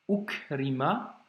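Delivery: slow "Ukrima", starting on a caught "ou"; measured reading demo of "Ukrima"; blocked ou. Shown as a demonstration. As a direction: say "Ukrima" in careful separate syllables. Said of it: "je bloque avec le ou".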